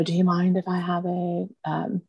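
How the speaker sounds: lightly put-on British accent; mock-polite British tea request. Son's friends playfully asking mom for tea, British accent. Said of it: "they all had these British accents".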